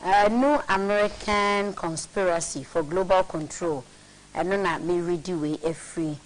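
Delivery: measured read from a printed text; reading aloud. Real, not acted. Co-host reads a conspiracy book to his partner, read aloud. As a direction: read out a weighty passage deliberately.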